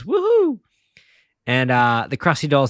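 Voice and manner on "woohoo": high, drawn-out cartoon whoop; Homer. Homer cheers at the news report, gleeful whoop. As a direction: whoop it with mock glee. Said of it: "And Homer says".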